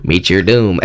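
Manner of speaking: low mock-ominous threat; lightly hammed-up doom voice; wizard dungeon master. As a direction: intone it like a game villain.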